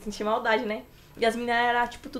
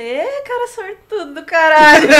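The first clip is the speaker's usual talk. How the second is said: laughing; 4 semitones higher, 10 dB louder, slower than usual. Retold or imitated. Security guard laughing, retold.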